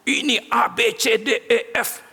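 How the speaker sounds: high, quick excited rattling off; a little breathless with eagerness; eager listing. Retold or imitated. The young woman telling the pastor her plans, eager and high.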